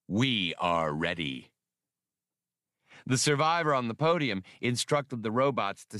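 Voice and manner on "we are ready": slow, low robot voice with a machine tone; a war robot slowly reporting ready; booming robot vocoder. A narrator's reading. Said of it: "From his vocoder boomed the words".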